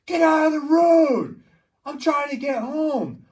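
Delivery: shrieking lady yelling out of her car, high and loud; high, drawn-out angry shout at a stuck driver. Retold or imitated. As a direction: yell it slowly, furious. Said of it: "And she's like".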